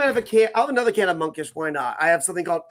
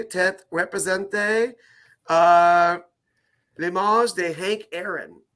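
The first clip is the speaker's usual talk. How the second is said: mock French with Italian flavor; bad Italian-accented French reading; much slower than usual. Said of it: "speaking French with an Italian accent".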